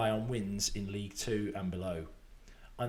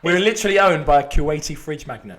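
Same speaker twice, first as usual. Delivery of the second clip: laughing; 3 semitones higher, 13 dB louder than usual. Real, not acted. Mocking club's fridge sponsor.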